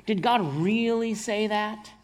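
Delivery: sly serpent voice questioning Eve; Satan's sly question. Retold or imitated. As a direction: play the serpent twisting God's words. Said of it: "He says".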